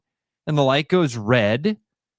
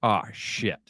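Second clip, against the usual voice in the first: mock scared; 3 semitones lower, 7 dB quieter than usual. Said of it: "you're like".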